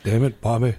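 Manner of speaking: lightly voiced Texan dad grumble; a touch of Hank Hill scolding his son; Hank Hill impression. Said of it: "sounds like Hank Hill".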